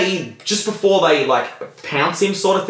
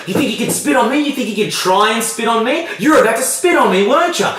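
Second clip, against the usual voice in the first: jab the questions at him in a much higher voice; retold angry cop; 8 semitones higher than usual. Cop accusing prisoner.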